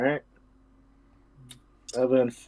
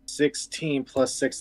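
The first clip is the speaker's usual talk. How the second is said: whispering; 3 dB quieter, slower than usual. Real, not acted. Whispering while adding dice.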